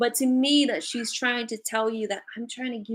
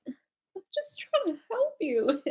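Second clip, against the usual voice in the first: voicing grandma; 9 semitones higher, slower than usual.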